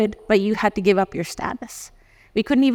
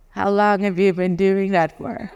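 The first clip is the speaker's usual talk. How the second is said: slow, drawn-out incredulous question; stunned customs officer; slower than usual. Retold or imitated. Customs officer stopping short, asking slowly in disbelief. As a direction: let the disbelief stretch every word. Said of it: "and he was like".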